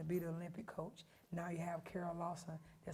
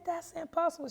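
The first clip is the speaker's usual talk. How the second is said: shocked protest; 11 semitones higher, 8 dB louder than usual. Retold or imitated. Hearing zero GPA.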